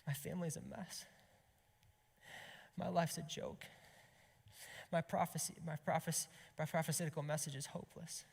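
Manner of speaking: tearful despair. Acted. Prophet walking back to the temple, in mildly tearful despair. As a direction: lament it, with a touch of tears. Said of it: "with tears in his eyes".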